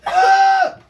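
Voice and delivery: bottle at lips; gulping between shouts; drinking from a bottle. Real, not acted. Seen 1: Speaker unclear; both girls hold drinks at lips; no powder visible.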